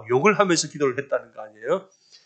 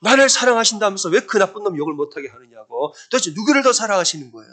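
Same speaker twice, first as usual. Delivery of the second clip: higher-pitched retold protest; arguing with God; 5 semitones higher than usual. Wronged wife protests to God in prayer, arguing. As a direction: imitate an indignant challenge to God. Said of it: "그냥 따지는 거예요".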